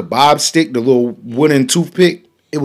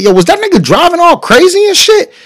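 high, louder anxious ask; pitched up, half-panicked; mock worried question; 4 dB louder than usual. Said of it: "I said".

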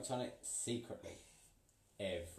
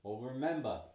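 snarled; 2 semitones higher, 4 dB louder than usual. Acted. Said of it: "snarled the witch".

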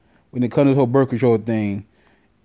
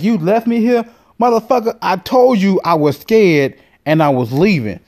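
higher, pitched-up mock rage; mock angry girlfriend; 5 semitones higher than usual. Date on the phone yelling at him, high mock anger.

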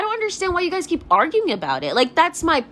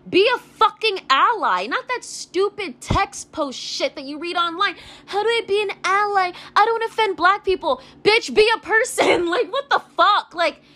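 heated, higher-pitched exasperated rant; real frustration, pitched up; angry; 6 semitones higher than usual. Real, not acted. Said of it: "sorry, I'm getting angry".

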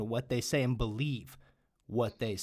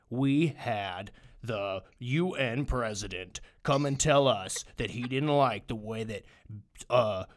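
slow, weighty, slightly louder official tone; mock pompous official; 4 dB louder, slower than usual. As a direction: parody a self-important statesman, dragging each word. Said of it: "someone talking like this".

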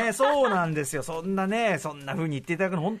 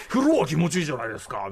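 mock booming objection; imitated loud voice; 3 dB louder than usual. Host mimicking the producer's retort about heat and baths, imitated loud voice. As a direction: belt it out like the ex-producer arguing back. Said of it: "みたいな大声言われて".

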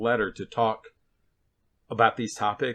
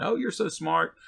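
mock-admiring oh, pitched up; sarcastic; 7 semitones higher, slower than usual. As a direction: flatter with a sneer underneath. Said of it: "he's being a little sarcastic".

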